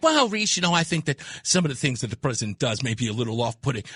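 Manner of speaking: lightly voiced calm woman calling in; polite female caller. Host imitating calm female callers, mock-polite voice. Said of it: "I get women call up here and they can be like".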